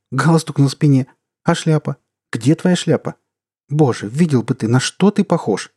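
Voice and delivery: scolding wife, shocked and scared; indignant and frightened. Acted. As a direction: fuss at him, outraged and scared. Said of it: "Возмущённо и испуганно восклицала супруга".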